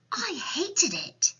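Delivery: put-on high little girl, drawn out; high-pitched orphan complaint; Sophie. A narrator's reading. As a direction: stretch it slowly in a child's voice. Sophie answers the giant.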